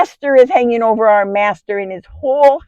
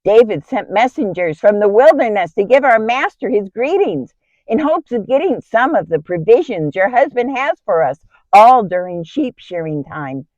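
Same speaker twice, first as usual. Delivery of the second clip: urgent, higher-pitched report of bad news; alarmed shepherd; 4 semitones higher, 4 dB louder than usual. Shepherd brings his master's wife news of looming disaster, alarmed. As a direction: voice an agitated servant pleading for action. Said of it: "came running to me with alarming news".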